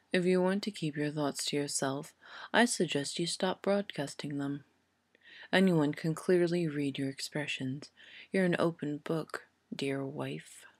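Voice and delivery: lightly voiced, soft, dry taunting; a hint of a sneering professor; cool sardonic wizard. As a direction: needle her quietly. Snape's soft, cold taunts.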